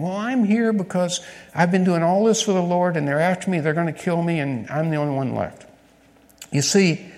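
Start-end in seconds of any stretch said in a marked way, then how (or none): 0.0-5.6 mild self-pitying Elijah. Acted. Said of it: "the wrong answer again".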